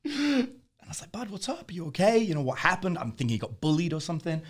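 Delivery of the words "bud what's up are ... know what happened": concerned dad. Retold or imitated. Father asks crying son what's wrong.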